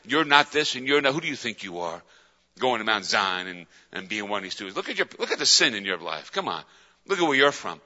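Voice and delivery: low, soft, belittling voice; accusing past. Acted. Your past creeping up to pull you back, accusing. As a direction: talk them down in a low undertone. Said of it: "all those things cry out to you".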